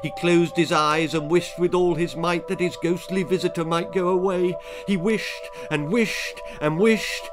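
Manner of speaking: urgent storytelling. A narrator's reading. Telling of the terrified boy wishing, urgent. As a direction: press on urgently, dragging out each repeated wish. Boy wishes ghost away.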